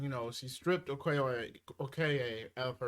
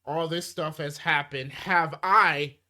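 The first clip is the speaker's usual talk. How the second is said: angry outburst; 5 dB louder, slower than usual. Retold or imitated. Retelling the queen's grieving outburst.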